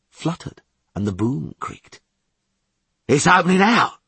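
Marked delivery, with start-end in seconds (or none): 3.1-4.0 high, loud lookout's call; excited shout. A narrator's reading. Fish shouting from the bow to crew, high excited shout. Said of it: "Fish shouted from the bow".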